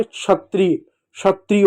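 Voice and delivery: क्षत्रिय said "shatriy"; sh-like ksh. Shown as a demonstration. Teacher giving children an example, क्षत्रिय as "shatriy". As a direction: open क्षत्रिय with a sh sound. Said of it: "श जैसे इसका उच्चारण होता है".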